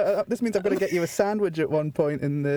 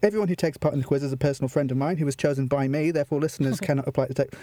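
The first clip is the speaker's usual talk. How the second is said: lower, deadpan official reading; mock legal disclaimer; 4 semitones lower than usual. Host reading legal twaddle to contestant, deadpan official. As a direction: read it out like solemn small print. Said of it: "I need to read this legal disclaimer".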